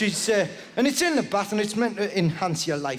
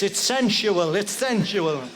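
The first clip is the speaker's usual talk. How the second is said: mock sensual; slower than usual. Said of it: "Look at this".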